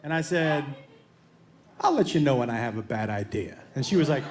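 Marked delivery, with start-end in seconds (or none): 1.8-3.6 cocky. Retold or imitated. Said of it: "I maybe got a little too cocky".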